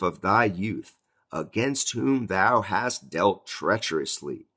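slow, solemn King James reading; preacher reading the Bible aloud; scripture reading. Acted. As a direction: read the verse with weight and care. Reads Malachi verse fourteen.

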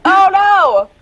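high loud playful cry of alarm; mock alarm. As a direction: yelp it up high. Reacting to a stream viewer.

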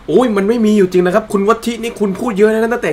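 put-on voice of a skeptic mocking the host. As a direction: play the heckler telling him he's gone mad. Imagined skeptic scolding the host.

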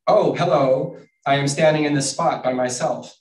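emphatic picture-book character read; mildly yelled dialogue. Acted. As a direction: announce it in a half-shout. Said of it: "I just yell my books".

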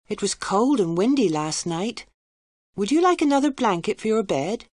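a hint of a young maid; servant girl. Servant girl speaks to Professor.

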